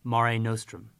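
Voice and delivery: "Mare nostrum" as MAH-ray NOH-strum, rolled r; Latin saying. Shown as a demonstration. Teacher modelling "Mare nostrum" for pupils to copy. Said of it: "Let's look at our Latin saying".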